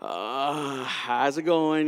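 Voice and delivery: smooth date move. Acted. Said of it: "I'm gonna do the".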